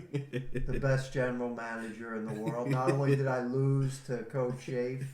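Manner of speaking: muffled through a bag; talking from under a bag; bag over head. Real, not acted. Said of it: "I'm wearing this humiliating bag over my head".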